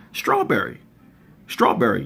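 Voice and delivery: "strawberry" said crisp and careful; proper strawberry. Retold or imitated. Retelling how the Jersey cousin said it, careful pronunciation. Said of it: "just like that".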